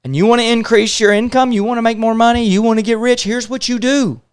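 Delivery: loud, high-pitched, hammering re-enactment; frustrated mentor. Retold or imitated. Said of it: "he got frustrated with me".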